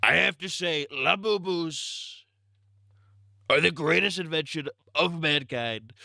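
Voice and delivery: hammed-up Trump rambling; Trump impression. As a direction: brag like Trump at a rally. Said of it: "my Trump impression".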